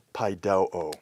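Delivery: pai do o, accent falling on "do"; "pai do o" with the stress on "do". Shown as a demonstration. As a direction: lean on the middle syllable "do" in "pai do o". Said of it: "the acute accent".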